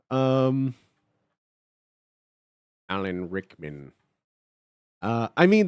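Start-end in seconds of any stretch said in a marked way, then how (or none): 2.9-3.9 Alan Rickman voice. Pretend. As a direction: speak it like a disdainful potions master. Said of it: "using Snape's voice already".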